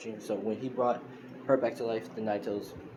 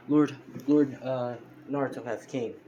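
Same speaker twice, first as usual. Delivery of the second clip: ceremonial announcement; 3 semitones higher, 6 dB louder than usual. Retold or imitated. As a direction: proclaim it like a herald, lightly voiced. Servants bowing, announcing their lord.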